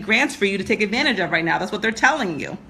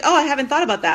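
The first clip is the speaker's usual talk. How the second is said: laughing naive imitation; 5 semitones higher, faster than usual. Mimicking client's naive reply, laughing.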